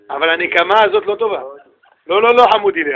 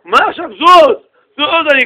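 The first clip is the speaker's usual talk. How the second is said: annoyed rabbi; 7 semitones higher, 7 dB louder than usual. Retold or imitated. Rabbi flaring up.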